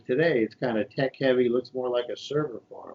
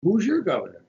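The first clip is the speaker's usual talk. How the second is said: excited; 6 semitones higher than usual. Retold or imitated. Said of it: "I'm excited, and I'm like".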